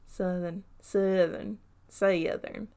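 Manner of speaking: testing out a Southern accent; trying Southern accent. Shown as a demonstration. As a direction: try the word "Southern" in different Southern twangs. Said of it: "if I can do a Southern accent".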